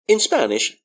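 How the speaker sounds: normal talking voice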